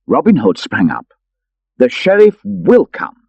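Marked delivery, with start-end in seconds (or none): 1.8-3.2 eager promise. Acted. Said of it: "he promised".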